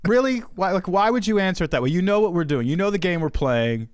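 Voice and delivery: retold incredulous protest, easing down; exasperated husband. Husband needling his wife over her guess, mock exasperated. Acted husband annoyed with wife's answer.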